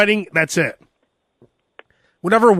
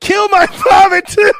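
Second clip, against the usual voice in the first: pompous royal; 12 semitones higher, 5 dB louder, slower than usual. Pretend. Royal voice, laughing.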